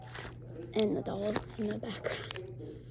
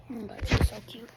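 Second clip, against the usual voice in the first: whisper; faster than usual. Real, not acted. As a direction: breathe the words. Whisper aside.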